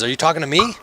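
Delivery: high-pitched prophet, questioning; doomsayer character. Acted. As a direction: answer as the crazed street prophet. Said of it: "he looks and he says".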